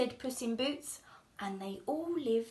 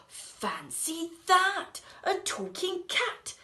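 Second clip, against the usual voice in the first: slow, louder, amazed exclaim; 7 semitones higher, 4 dB louder, slower than usual. Acted. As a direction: drag it out in wonder. Farmers amazed.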